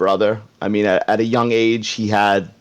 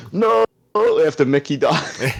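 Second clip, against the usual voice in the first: Rocky's guttural yell; 5 semitones higher than usual. Acted. Comic impressionist reenacting Rocky after Mickey dies, guttural yell. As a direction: imitate Rocky's anguished guttural cry. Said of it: "The guttural yell of, of Rocky".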